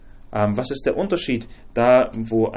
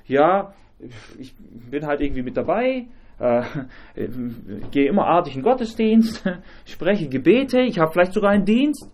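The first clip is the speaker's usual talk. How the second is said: smug churchgoer; 3 semitones higher than usual. Retold or imitated. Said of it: "wenn er meint".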